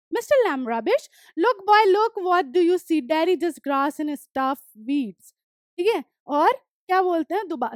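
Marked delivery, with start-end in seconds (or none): 0.1-5.3 reading the story text slowly, word by word; slow reading aloud. Acted. Teacher reading the story aloud to students, slow and clear. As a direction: read each English line slowly and clearly for the class.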